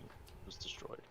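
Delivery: unvoiced whisper. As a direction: breathe it out. Whispered aside in character.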